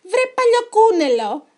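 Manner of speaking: high, drawn-out angry yell; shouted insult. A narrator's reading. Trapped chicken pirates cursing the rabbit, shouting. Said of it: "φώναζαν".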